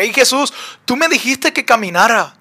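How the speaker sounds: acting out a complaint to Jesus; imagined reproach. Sinking Peter reproaching Jesus, mildly aggrieved. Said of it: "Así debió sentirse Pedro".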